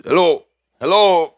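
put-on lightly drawn-out accented hellos; a hint of the family friend calling hello; Miguel's voice. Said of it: "he talked like this".

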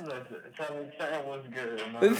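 thin voice through a phone speaker; tinny talking telephone. Real, not acted. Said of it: "that's the phone voice".

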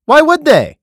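high, loud disbelieving squeal; incredulous. Real, not acted. Reader mocking the people who ignored God, incredulous. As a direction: pitch it up in total disbelief.

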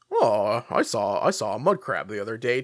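mock small talk with swooping tune; Oblivion game character. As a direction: imitate a stilted video game villager. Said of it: "an Oblivion where you're just messing".

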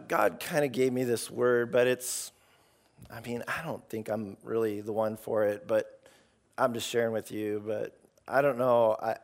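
unsure and apologetic, trailing off; timid mumble. Retold or imitated. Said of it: "it's lame".

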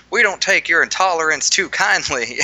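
South Park rednecks, mock Southern accent; redneck Southern drawl. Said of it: "where the rednecks come out and they're like".

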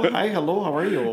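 lightly mimicked Fargo accent; Frances McDormand. Movie character greets someone in a Fargo accent. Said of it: "Frances McDormand from the movie Fargo".

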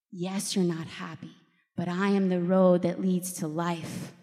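lightly voiced Jesus, falling at each phrase end. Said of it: "I did not hear that voice that night".

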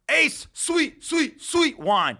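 host warms up his voice to introduce Benji, announcer style. Shown as a demonstration. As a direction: introduce him like a ring announcer, stretching the words. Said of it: "let me warm up my voice".

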